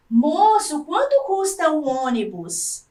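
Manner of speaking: rising question tune on "ônibus?"; question intonation. Shown as a demonstration. Teacher reading the boy's question to the class, rising tune on "ônibus?". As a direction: read it as a real question, ending "ônibus?" up. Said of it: "a entonação da voz deve mudar".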